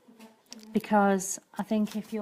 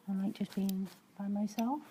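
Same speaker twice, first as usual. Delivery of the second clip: put-on Brummie accent; 8 dB quieter than usual. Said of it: "that was my little Brummie accent".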